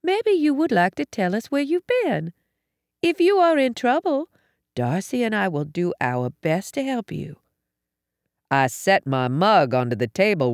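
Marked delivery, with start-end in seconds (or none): 0.0-7.4 high, gentle coaxing; sweet motherly offer of help; kindly mother. A narrator's reading. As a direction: invite him kindly to confide. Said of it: "She smiled at our visitor".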